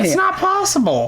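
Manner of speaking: emphatic insistence. Real, not acted. Insisting on the claim.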